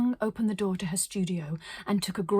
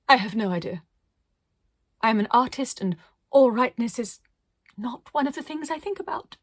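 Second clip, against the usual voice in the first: louder, grand theatrical artist voice; dramatic artist; 4 semitones higher, 5 dB louder than usual. Acted. Arcadia tells the little voice grandly, theatrical and loud. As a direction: declaim it like a diva painter.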